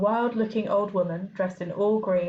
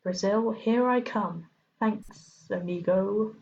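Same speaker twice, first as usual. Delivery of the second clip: hissing snake; slower than usual. Acted. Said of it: "a low hissing voice said".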